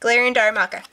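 short of breath, lungs sore; breathless from a sore chest. Real, not acted. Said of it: "Sorry if I sound like I'm out of breath".

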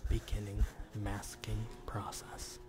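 label read close and quick; fast aggressive asmr. Shown as a demonstration. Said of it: "reads the label aloud".

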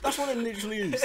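high, fast laughing speech. Real, not acted. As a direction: laugh through the words.

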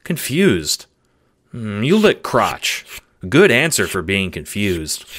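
puzzled pet in short, halting phrases; confused simple dog. Acted. Dog answering a mysterious voice, mildly baffled. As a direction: think it through like a baffled dog.

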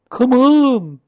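loud, high creature shout; high-pitched answering cry; high echoing call. A narrator's reading. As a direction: call it out with a long falling end. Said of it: "called Pooh and Piglet".

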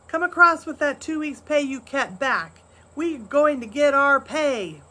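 a crowd of workers yelling for their pay; angry workers shouting at Pa; shouted. A narrator's reading. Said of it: "Other voices shouted".

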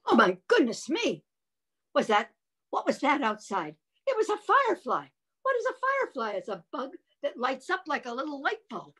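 high astonished exclamations; high amazed mock shock. Shown as a demonstration. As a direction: gasp at the news.

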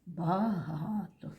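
"Багато" slowly, drawing out the middle га; measured "Багато" with a lengthened stressed га; stress on second syllable. Shown as a demonstration. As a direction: stretch the га in "Багато". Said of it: "поставимо цей значок наголос".

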